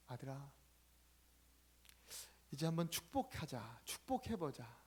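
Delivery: mother softly urging her son to bless; gentle urging. Acted. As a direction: coax him kindly to bless.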